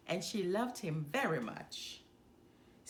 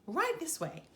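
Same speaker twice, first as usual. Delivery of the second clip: eager call; 6 semitones higher than usual. A narrator's reading. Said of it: "cried all the elephant ladies".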